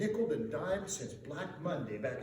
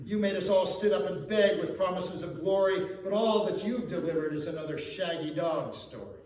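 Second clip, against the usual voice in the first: louder, scolding and bitter; angry accusation; 5 dB louder than usual. Acted. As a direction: throw the broken promises back at him. Angry merchants accuse McPhee.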